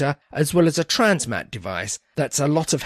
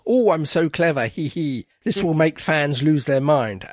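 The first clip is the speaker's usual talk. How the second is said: gloating writer cackle, lightly voiced; smug cackling villain, lightly done; mad scientist; 3 semitones higher than usual. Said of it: "cackling madly".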